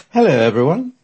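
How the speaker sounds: put-on loud, commanding old lady; loud, authoritative. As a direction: address the room with authority. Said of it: "with a loud, authoritative voice".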